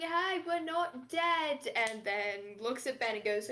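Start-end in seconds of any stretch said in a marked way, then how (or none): 0.0-1.7 mild holler. Acted. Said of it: "hollers to everyone else going".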